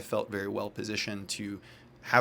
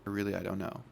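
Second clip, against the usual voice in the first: soft, evasive mumble; sheepish mumble; 7 dB quieter than usual. Retold or imitated. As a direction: mumble it out, avoiding the question. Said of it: "And he's like".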